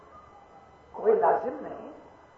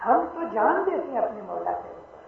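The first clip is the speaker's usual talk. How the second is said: full-voiced declaration; 2 semitones higher than usual. Real, not acted. Preacher declaring devotion to his Lord, full-voiced. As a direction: proclaim it to the whole hall. Repeated phrase, second take full.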